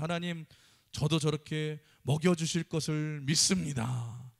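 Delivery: a man praying in earnest, slowing down; 하나님께 간절히 기도하듯 천천히 크게; earnest prayer. Retold or imitated. Man prays to God in story.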